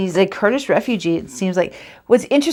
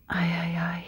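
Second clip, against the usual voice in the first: sadly; 2 semitones lower, 10 dB quieter than usual. Acted. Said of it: "he says sadly".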